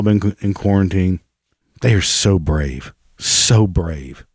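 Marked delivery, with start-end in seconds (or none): 1.8-4.3 deadpan mock praise, a bit lower; sarcastic fake admiration. Real, not acted. Vlogger mocking celebrities as brave, deadpan.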